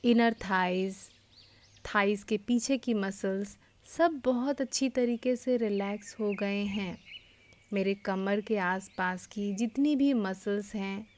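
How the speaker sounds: unhurried yoga nidra guidance with long pauses; guided meditation. Real, not acted. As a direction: guide them into relaxation phrase by phrase, leaving space between.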